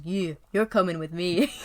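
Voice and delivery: put-on loud, clumsy Scottish accent as Shrek; bad Scottish Shrek. Podcaster imitates Shrek ordering someone along, bad Scottish accent. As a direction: growl it like a badly done Shrek. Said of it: "That's a terrible Scottish accent".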